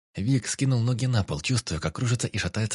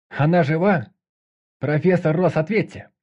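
loud call; 8 semitones higher, 7 dB louder than usual. A narrator's reading. Squad calls through the door.

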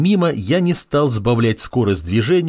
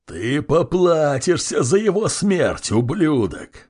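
slow, higher-pitched vengeful roar; enraged roar; 5 semitones higher, slower than usual. A narrator's reading. Flaming clan boss vows revenge for his man, roaring. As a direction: roar the threat, drawing out each word. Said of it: "заревел он".

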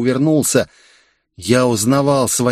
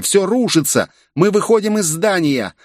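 high, urgent female voice; exclaimed; 9 semitones higher than usual. A narrator's reading. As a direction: blurt the warning, higher. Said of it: "воскликнула Виктория".

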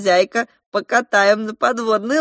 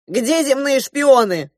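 yelled; 7 semitones higher, 6 dB louder, slower than usual. A narrator's reading. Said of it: "заорал полицейский".

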